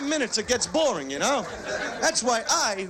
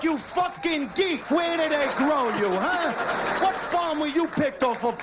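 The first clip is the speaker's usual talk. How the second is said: shouted insult; 4 semitones higher than usual. Retold or imitated. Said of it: "shouted retake".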